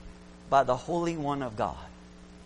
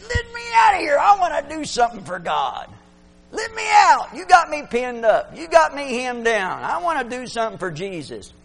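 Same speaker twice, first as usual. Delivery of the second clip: much higher, loud pleading shout; Holy Ghost voice; 9 semitones higher, 8 dB louder than usual. Acted. Preacher voicing the Holy Ghost pinned inside a believer, loud shout. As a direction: shout like a spirit straining to break free. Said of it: "He said".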